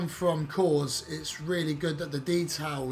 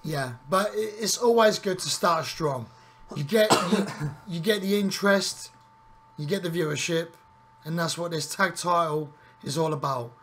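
a little louder commentator hype; show commentator; 3 dB louder than usual. Acted. Co-host hyping the tag title match, mild commentator voice. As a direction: sell the title match to the audience.

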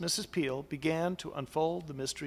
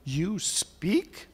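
surprised question; 3 semitones higher than usual. Acted. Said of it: "quite surprised".

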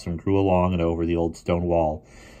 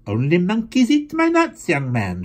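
put-on high, loud old-lady voice; imitating a sharp old lady; old lady's scolding; 13 semitones higher, 6 dB louder than usual. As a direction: snap it like a tart old schoolmistress. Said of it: "she said".

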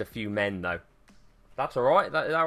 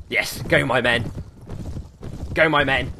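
raised, louder commander's cheer; battle rallying call; 4 dB louder than usual. Pretend. Player to his charging cavalry, rallying call. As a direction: urge the troops on loudly.

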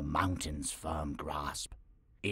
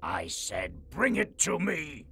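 roaring; 2 semitones higher than usual. Acted. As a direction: build from hush to roar.

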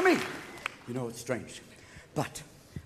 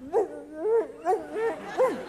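high yipping dog bark; Lassie barking; 4 semitones higher, slower than usual. Retold or imitated. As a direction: bark like an eager collie. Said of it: "What else, girl?".

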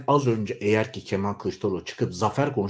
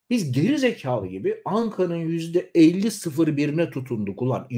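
higher, rising and heated on "geri zekalı"; "Biz geri zekalı gibi" flung out high and heated with a rise; heated and higher, then falling away; indignant outburst; 5 semitones higher than usual. Real, not acted. Bitter repeat of the claim.

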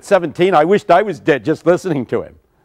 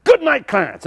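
high ringing preacher's call; preacher yelling goodbye over the casket; yelled farewell; 9 semitones higher than usual. Retold or imitated. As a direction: sing out the goodbye, high and strong. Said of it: "And he yelled".

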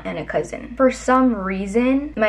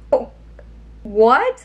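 a loud, baffled what; baffled surprise; 3 semitones higher, 5 dB louder than usual. Retold or imitated. Niece baffled at her aunt's sudden pity, a loud surprised what. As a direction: caught off guard by nonsense.

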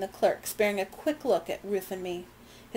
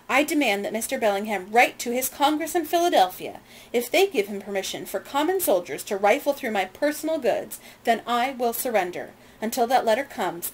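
indignant demand; 3 semitones higher, 3 dB louder than usual. Acted. Lady indignantly refuses to move.

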